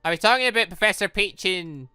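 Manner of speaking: usual speaking voice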